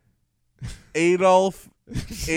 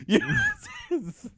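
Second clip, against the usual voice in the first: laughing; slower than usual. Acted. Laughing high repeat.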